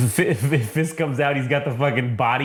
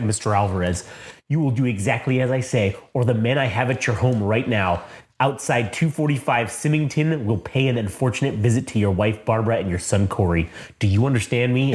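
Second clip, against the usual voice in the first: lower, calm, measured threat; menacing villain; 3 semitones lower than usual. Retold or imitated. Wesley threatening the janitor's family, low and calm.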